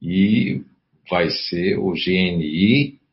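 normal talking voice

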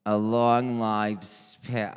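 put-on loud Brooklyn Jewish mother accent. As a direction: slip into a Brooklyn mother's voice, loudly. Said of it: "I don't know why I turned into a Jewish mother from Brooklyn".

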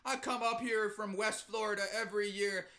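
lightly voiced insistent tourist; mock tourist boast; tourist asshole. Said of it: "It's some tourist asshole".

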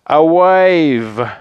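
high, loud, drawn-out climax; dramatic reveal. A narrator's reading. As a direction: let it swell like the big surprise. Narrator's climax, wave arrives.

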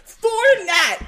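loud, high rallying cry with laughter; mock rousing shout. To her friend Nat, retelling her vow to watch the film, laughing shout. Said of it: "I was like".

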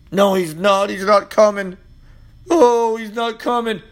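mock doubter. Mocking doubters' voice.

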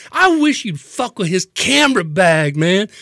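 hammed-up slurred threat; belligerent drunk. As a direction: goad the bouncer like a wasted tough guy. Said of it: "He goes".

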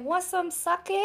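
lightly voiced lady, high-pitched offer; imitated offering lady. Lady offering a drink to nervous diner, lightly imitated. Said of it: "And she's like".

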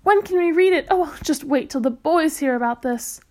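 eager and delighted. Acted. Mother eager to read.

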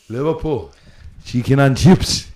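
slow mock vendor patter; imitating foreign vendors. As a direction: mimic the sellers' sales line, drawn out. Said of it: "the way they always used to say".

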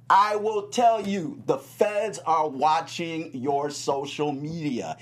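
warning. Real, not acted. Warning about the feds.

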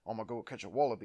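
mock Australian accent, quick and pronounced; quick Australian accent impression. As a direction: put on a broad Australian accent. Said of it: "it's more deep and more pronounced".

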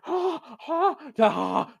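high-pitched imitation of leering cackles; spaced-out, excited mock laughs; Jerry Lawler. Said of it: "that was my Jerry Lawler impression".

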